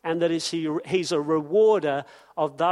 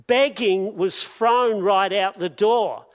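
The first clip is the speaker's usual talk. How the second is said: preacher driving the point home; louder repeat; 2 semitones higher, 5 dB louder than usual. Shown as a demonstration. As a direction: hit "thrown" hard in the repeat.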